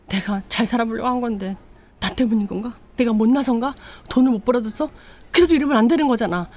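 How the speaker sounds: he begs her to understand, breaking; anguished plea. Retold or imitated. Drunk husband pleading with his wife on the phone, growing desperate.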